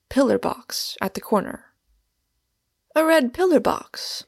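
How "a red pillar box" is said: high, astonished exclamation; startled, high-pitched disbelief; astonished cry. A narrator's reading. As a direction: cry it out in amazement, pitched well up. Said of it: "I cried in astonishment".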